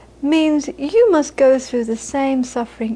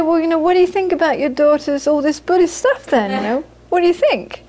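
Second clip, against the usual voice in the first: curious question; 4 semitones higher than usual. Retold or imitated. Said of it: "And then they'd say".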